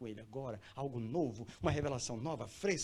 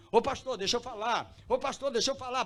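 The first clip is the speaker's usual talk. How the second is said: loud, high, insistent call; eager pleading; 9 semitones higher, 7 dB louder than usual. Acted. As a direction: clamour for the microphone as an eager believer. Acts believer begging for microphone. (pedindo com insistência, alto e agudo)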